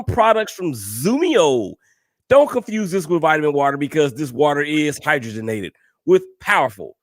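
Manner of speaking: fast, pitchy sponsor pitch; ad read. Acted. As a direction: sell it like a radio spot. Reads sponsor ad.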